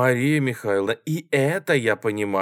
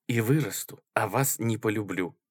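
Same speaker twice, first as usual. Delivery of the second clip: ordinary delivery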